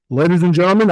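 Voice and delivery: big dramatic movie announcer; movie trailer voice. Shown as a demonstration. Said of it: "I'm gonna put on my movie voice".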